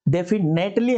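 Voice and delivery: "definitely" sounded out with a full "net" before "ly"; spelling-style pronunciation. Shown as a demonstration. Teacher showing students how to read "definitely" for spelling, sounded-out pronunciation. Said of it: "पढ़ने के लिए हम ये पढ़ते हैं".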